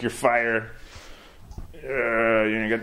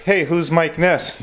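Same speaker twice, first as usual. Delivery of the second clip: mock applicant; 4 semitones higher, slower than usual. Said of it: "the guy's like".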